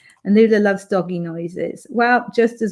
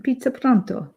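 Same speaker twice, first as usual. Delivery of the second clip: Pizza Pronto with rolled Italian vowels, Pronto ending on a clear o; a light mock Italian accent on Pizza Pronto; 3 semitones higher than usual. Reading a chat suggestion aloud, in a light mock Italian accent. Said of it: "Try saying it in an Italian accent".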